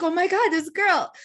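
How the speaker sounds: high, loud mock dismay; retold exasperated reaction. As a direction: react in exaggerated disbelief. Retells own reaction to stranger crying.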